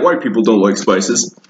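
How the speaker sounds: mock a bland white guy saying it; white people voice. Vlogger mocking a stereotype, in light white-people voice. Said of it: "that's also my white people voice".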